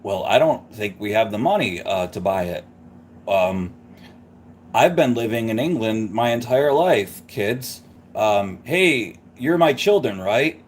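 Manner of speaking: put-on low, hesitant dad with no English accent; Dick Van Dyke. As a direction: play an American dad among English kids. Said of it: "Dick Van Dyke's like".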